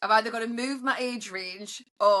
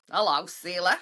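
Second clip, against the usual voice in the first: flirty greeting; 4 semitones lower than usual. Retold or imitated. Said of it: "I was like".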